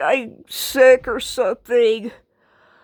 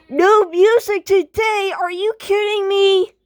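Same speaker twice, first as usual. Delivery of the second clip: surprised; 7 semitones higher than usual. Acted. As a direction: echo "No music today?" in shock, much higher. Girl reacts to the ban.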